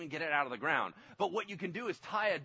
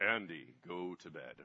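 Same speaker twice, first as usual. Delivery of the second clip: dropped way down, soft; 12 semitones lower, 6 dB quieter than usual. Father showing how he tells his daughter to go to bed, in his God voice. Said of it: "I do that all the time".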